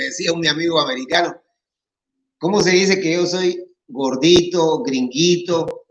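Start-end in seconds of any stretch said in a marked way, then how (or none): 2.4-5.9 put-on American accent. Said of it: "por el acento".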